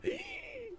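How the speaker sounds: sharp high gasp, mock terror; imitated gasp of fright. Sister on the ride gasps at the scary parts. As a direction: gasp like a scared kid on a ride. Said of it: "and she's going".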